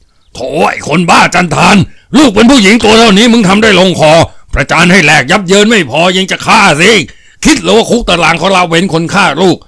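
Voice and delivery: angry dressing-down of a brutal father; roaring rebuke. A narrator's reading. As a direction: berate him fiercely, roaring. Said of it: "พร้อมเงื้อกำปั้นขึ้นพลางคำราม".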